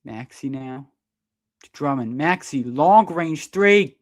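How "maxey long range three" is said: slow, loud stretched call; drawn-out call. Real, not acted. Commentator calling a long three, slow loud build. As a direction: hang on the shot as it flies. Maxey shoots a deep three.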